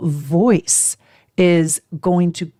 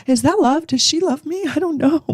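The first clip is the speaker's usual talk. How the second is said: laughing doubt; 10 semitones higher than usual. Acted.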